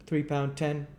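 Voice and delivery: high, firm repeated price; firm chairman. Acted. Limbkins repeats his price to Gamfield, firm and high. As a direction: state it immovably. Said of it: "repeated Mister Limbkins, firmly".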